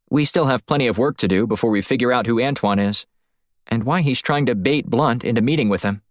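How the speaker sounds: hint of a concerned female partner; lightly voiced female colleague. Woman planning next steps with her partner Black, lightly voiced.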